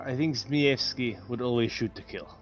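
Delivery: ordinary talk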